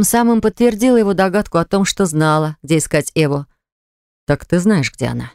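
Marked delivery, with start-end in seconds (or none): none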